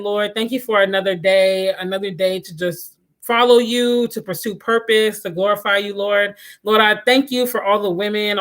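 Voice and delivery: steady, earnest spoken prayer to the Lord; closing prayer. Acted. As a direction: pray sincerely for the viewers, unhurried.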